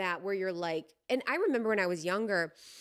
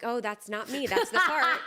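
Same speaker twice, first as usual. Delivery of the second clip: mock disowning, laughing; 4 semitones higher, 4 dB louder than usual. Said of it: "Where you're like".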